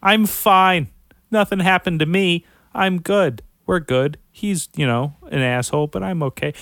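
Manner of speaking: high, loud, brushing it off; dazed tough guy. Retold or imitated. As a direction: play the concussed player insisting he's fine. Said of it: "The dude afterwards, like".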